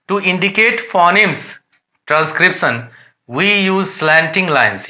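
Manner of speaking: reading English textbook lines slowly and deliberately; careful dictation pace for students; slow read-aloud definition. Shown as a demonstration. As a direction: dictate it word by word to the class.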